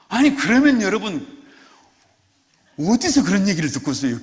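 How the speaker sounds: ordinary delivery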